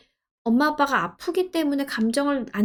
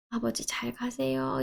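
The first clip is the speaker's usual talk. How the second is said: soft farewell; 8 dB quieter than usual. Pretend. Farewell to the late father.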